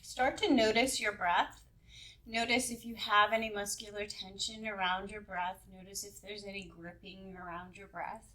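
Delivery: unhurried meditation guide, long pauses between instructions; lightly held yoga nidra guiding voice; guided meditation. Acted. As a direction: ease listeners into relaxation, leaving space between phrases.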